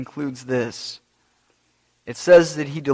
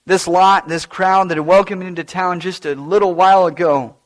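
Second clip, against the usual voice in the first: Barabbas telling his story. Acted. Preacher speaks as Barabbas, recalling the crowd, hushed. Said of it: "I'll let Barabbas tell you".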